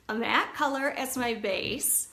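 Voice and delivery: words sticking on tacky lips; careful, slow, lips sticking together. Real, not acted. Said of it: "Do you like how that sounds?".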